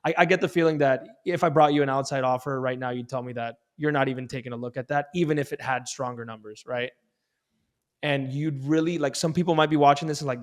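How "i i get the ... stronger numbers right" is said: light smile in the voice; teasing sales pitch, tagged with a quick check; playful tone. Shown as a demonstration. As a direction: say it playfully, as if expecting a no. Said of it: "that little smile is called a playful tone".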